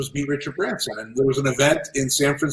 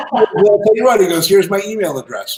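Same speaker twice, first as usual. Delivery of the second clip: bad London accent; 7 semitones higher, 5 dB louder than usual. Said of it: "I have a horrible London accent".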